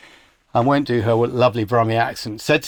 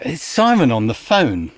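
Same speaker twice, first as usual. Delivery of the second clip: informal PA; 3 semitones higher than usual. Retold or imitated. PA announcing Simon's phone call to her boss, lightly imitated. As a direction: call out casually like an informal assistant. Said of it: "Not quite, Would you take the call direct".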